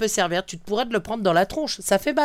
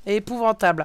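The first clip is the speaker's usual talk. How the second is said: laughing. Real, not acted. Laughing at friend's boast.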